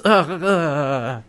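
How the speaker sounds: slow, drawn-out mock groans; frustrated groans. Eren fed up with John, exasperated mock groaning.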